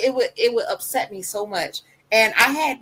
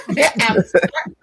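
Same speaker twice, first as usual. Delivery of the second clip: put-on child's voice; 3 semitones higher, 7 dB louder than usual. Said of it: "He started adding stuff".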